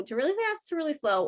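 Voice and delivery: racing pace demo. Shown as a demonstration. Teacher showing staff a pace to avoid, rushed demo. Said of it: "doesn't change really fast to really slow".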